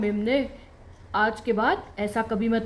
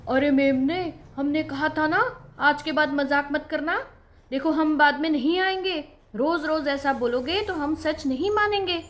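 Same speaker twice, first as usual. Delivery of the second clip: angry; 4 semitones higher, 3 dB louder than usual. Acted. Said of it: "आज गुस्से में थे".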